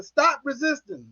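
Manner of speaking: high, slow mock yell, held back in volume; drawn-out mock cop command; retold cop's yell. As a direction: imitate a yelled order, stretched and softened. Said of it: "The cop keeps yelling".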